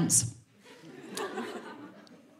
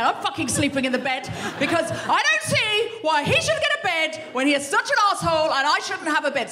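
indignant rant; 4 semitones higher than usual. Retold or imitated. Indignant rant about husband.

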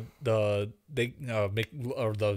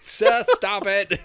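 slow, higher scolding quote; mock scolding; 6 semitones higher, 5 dB louder, much slower than usual. Friend quoting a scolding line, slow and high. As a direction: drag it out like a scolding parent.

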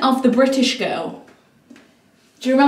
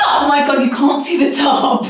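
scream into giggles. Real, not acted. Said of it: "You scared the life out of me".

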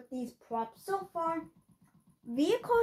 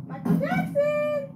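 squealed through laughter, much higher; high laughing squeal; 12 semitones higher, 4 dB louder than usual. Real, not acted. Laughing at cursed avatar.

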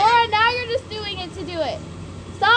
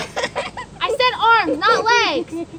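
stern scolding; 5 dB louder, much slower than usual. Real, not acted. Scolds the child.

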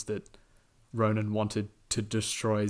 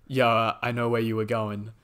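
put-on Australian accent; 5 dB louder than usual. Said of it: "he's doing his Australian accent".

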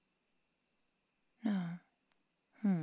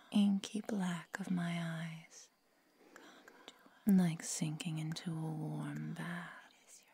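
hypnotic whisper; slower than usual. Acted. Vampire entrancing pet to break the spell, slow hypnotic whisper. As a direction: lull them down into your eyes.

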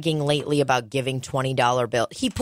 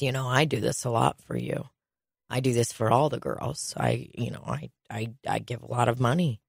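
imitating Donald bragging; 6 semitones lower, 5 dB quieter than usual. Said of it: "and then he goes".

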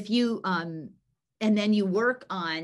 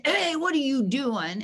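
higher, louder calling out; raised-voice mock reprimand; mock challenge; 6 semitones higher, 5 dB louder than usual. Shown as a demonstration. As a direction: demonstrate an overdone interruption. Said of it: "I'm not gonna".

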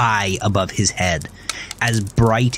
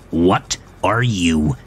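high, incredulous exasperated man; exasperated Melvin; 10 semitones higher than usual. A narrator's reading. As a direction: scold him in disbelief. Melvin outraged at Gavin.

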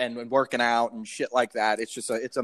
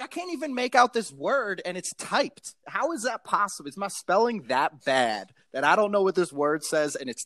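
higher-pitched mock disbelief; incredulous; 5 semitones higher than usual. Comic baffled by his own notes, pitched-up disbelief. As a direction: go up high, baffled by your own typing. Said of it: "some of it I was like".

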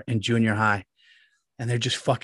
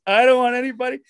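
higher, louder drawn-out teacher impression; slow teacher voice; 9 semitones higher, 6 dB louder, faster than usual. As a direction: stretch each word like the old teacher. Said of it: "he talked real slow like that".

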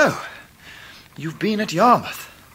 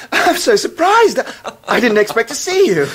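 laughing surprise; 4 semitones higher, 4 dB louder than usual. Acted. A young man laughs with delight at his old friend's visit, laughing surprise.

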